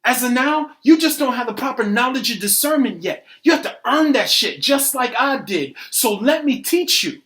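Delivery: loud, forceful lecturing; heated condescension. Acted. Arguer schooling a doubter, heated and condescending. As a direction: talk down with force.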